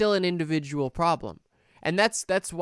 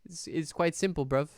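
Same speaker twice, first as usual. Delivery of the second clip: rough London slang. Retold or imitated. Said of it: "conservative position of, like".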